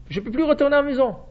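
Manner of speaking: a brother who cannot go home; Reuven lamenting. Retold or imitated. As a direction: voice Reuven's despair, rushing the words.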